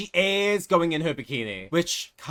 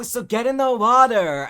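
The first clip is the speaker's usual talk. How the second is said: menacing siren; 8 semitones higher, 8 dB louder than usual. Acted. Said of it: "She's like".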